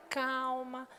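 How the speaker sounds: quiet the tantrum; hushed soothing word; soft calm. Shown as a demonstration. Soothing a fallen child.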